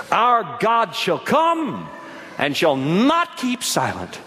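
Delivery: slow, heavily emphasized declamation; scripture proclamation. Real, not acted. Preacher reads Psalms to congregation, slow emphatic proclamation. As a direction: lean dramatically into the key words.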